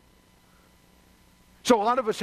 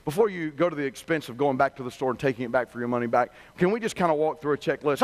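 lower, even, patient phone-rep voice; calm customer rep; 8 semitones lower than usual. Retold or imitated. Rep calmly answers an upset Mister Coffee customer, lower and patient. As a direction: soothe the angry caller like a polite service rep. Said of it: "The rep calmly replies".

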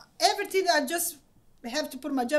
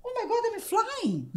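laughing; 6 semitones higher, 8 dB louder than usual. Retold or imitated. Retold takeoff awe.

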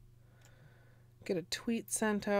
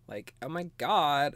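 a hint of Valley Girl gushing. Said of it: "I read that in a Valley Girl voice".

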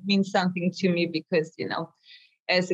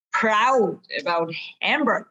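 laughing. Real, not acted. Fond memory of Hamburg.

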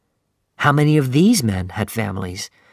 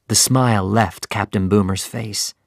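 ordinary delivery

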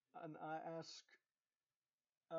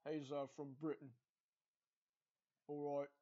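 imitated British accent; 3 semitones lower than usual. Grandson imitating his British step-grandpa, British accent. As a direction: do a casual impression of a Brit. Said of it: "he talks like this".

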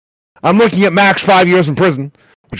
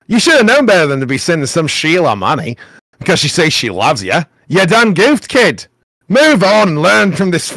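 Australian accent. Shown as a demonstration. Rereading the post as the Australian writer, light Aussie accent. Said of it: "apparently this person's Australian".

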